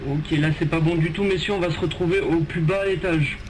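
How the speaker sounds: loud urgent military orders; drill sergeant. Acted. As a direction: warn the squad sternly. Sergeant warns squad of danger.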